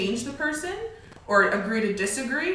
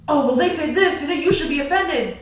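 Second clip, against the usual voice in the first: imitating a busybody; 5 semitones higher, 5 dB louder than usual. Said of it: "somebody is like".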